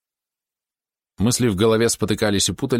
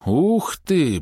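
stretched, high-pitched exclamation of awe; drawn-out wow; 7 semitones higher than usual. A narrator's reading. Boy amazed at the mounted troop, drawn-out exclamation. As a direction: draw the words out in wonder. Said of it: "протянул кто-то".

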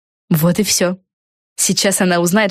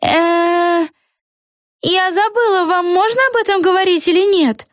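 very high, flustered voice; muddled witch; 13 semitones higher than usual. A narrator's reading. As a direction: lose track of the secret. Eggi unsure.

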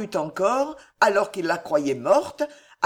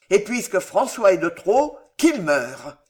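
louder, vengeful decision; vengeful vow; 4 dB louder than usual. Acted. Danville vowing his brother François must die, vengeful. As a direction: spit out the death wish. Villain vows brother's death.

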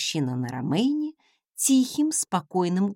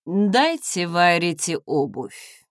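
slow, louder order; commanding; 3 dB louder, slower than usual. Acted. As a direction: lord ordering servants. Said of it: "приказал он слугам".

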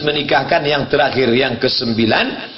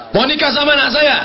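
quick, higher father voice; father's question; 10 semitones higher, faster than usual. Retold or imitated. Modern father quizzing suitor, quick and higher. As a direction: fire it off like a busy father.

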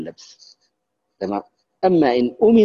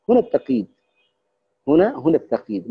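ordinary delivery

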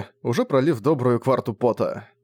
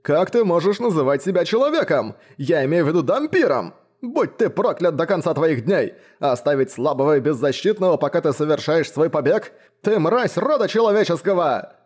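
furious cursing; 6 semitones higher than usual. A narrator's reading. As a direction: hurl curses at the coward. Baron curses the departing hunter.

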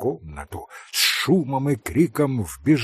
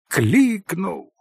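cry out; 6 semitones higher, 3 dB louder than usual. A narrator's reading. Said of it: "прокричала она".

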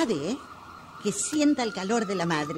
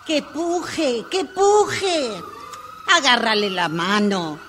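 urgent shout; slower than usual. Acted. Father on the phone shouting to push, urgent. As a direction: yell it down the phone like the baby is coming now. Urging a home birth by phone.

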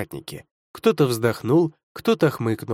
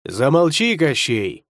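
sharp shout; slower than usual. Acted. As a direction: yell at him to shut up. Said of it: "прикрикнул на него Леший".

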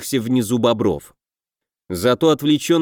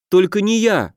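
high, begging cry of a frightened creature; pleading; 7 semitones higher than usual. A narrator's reading. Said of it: "взмолился лохр". (высокий испуганный умоляющий голос)

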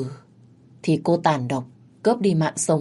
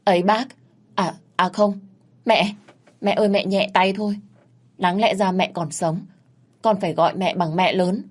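higher, urgent begging; kneeling plea; 3 semitones higher than usual. Acted. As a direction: plead with her to go easy. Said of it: "quỳ xuống van xin".

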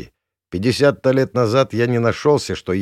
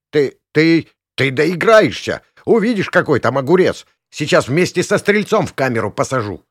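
higher, loud stammering rage; sputtering threat; 7 semitones higher, 6 dB louder than usual. Acted. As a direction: splutter with fury. Flustered policeman threatening. (заикаясь от злости)

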